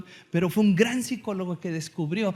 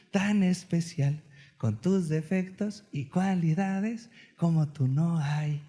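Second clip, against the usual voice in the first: tender lullaby; slower than usual. Retold or imitated. Father sings his daughters to sleep, slow tender croon. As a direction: soothe a child to sleep, slowly. Bedtime song words to daughters.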